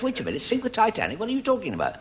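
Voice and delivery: high, indignant protest; indignant Jewish chap. Retold or imitated. Jewish chap accused of sinking the Titanic, high indignant protest. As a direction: protest in mock outrage. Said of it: "Jewish chap says".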